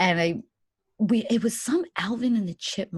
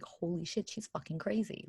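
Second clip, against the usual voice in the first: much softer, under the breath; unconcerned baby's aside; 3 semitones lower, 11 dB quieter than usual. Retold or imitated. Baby privately judges crying mother, quiet unimpressed aside. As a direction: mutter it as a baby's private verdict. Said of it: "he wasn't even concerned".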